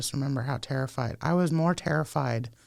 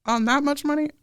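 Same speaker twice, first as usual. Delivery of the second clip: much higher, slow sarcastic voice; mocking disbelief; 11 semitones higher, 4 dB louder than usual. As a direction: scoff at it like a doubting official. Mocking the caseworkers' scepticism.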